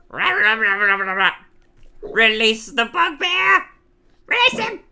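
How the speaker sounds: loud, high chant rising to a yell; roaring arena shout. Acted. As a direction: bellow for the beast to be released. Crowd roars to release the monster.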